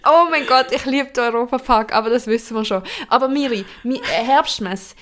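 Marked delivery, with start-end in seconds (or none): 3.1-4.9 eager, hurried and worked up; rushing to pour it all out; getting heated. Real, not acted. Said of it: "I'm getting heated, merkst du es?". (aufgedreht und hitzig)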